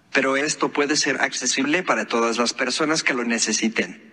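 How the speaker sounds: robotic text-to-speech voice; synthesized voice. Real, not acted. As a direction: read it like a phone's speech app. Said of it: "esto que usted escucha es una voz sintetizada". (voz sintetizada de computadora)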